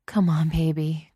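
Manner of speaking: coaxing. Acted. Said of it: "coaxed Genevieve".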